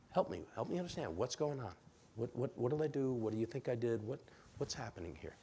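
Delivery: calm the upset person down; calm, gentle. Shown as a demonstration. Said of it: "Ask again, calmly".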